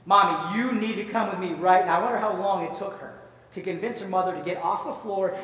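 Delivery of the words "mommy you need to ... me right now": firm, measured insistence at usual pitch; insistent child's plea. Acted. Little girl insisting to her reluctant mother, firm and serious. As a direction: press each word, mildly insistent.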